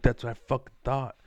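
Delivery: loud, fast smug put-down; smug tough guy after winning the standoff; cocky. Retold or imitated. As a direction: spit it out with swagger. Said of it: "and then I'm like".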